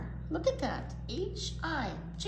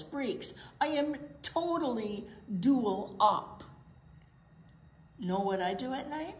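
a lightly voiced swaggering truck; boastful garbage truck; slower than usual. Reading to kids, a cocky garbage truck brags. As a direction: brag like a proud garbage truck.

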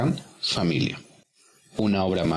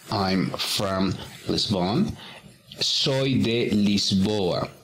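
slow model reading; much slower than usual. Shown as a demonstration. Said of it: "model sentence and translation".

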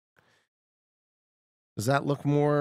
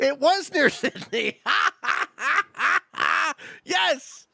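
laughing with joy; 12 semitones higher, slower than usual. Real, not acted. Celebrating the correct guess.

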